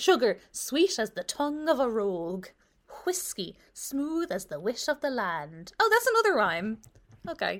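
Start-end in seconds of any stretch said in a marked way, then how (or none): 0.0-5.7 slow, clumsy, bad Irish accent. Reading a rhyme aloud while making fun of it, the speaker uses a bad irish accent. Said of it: "My Irish accent is worse than my American accent".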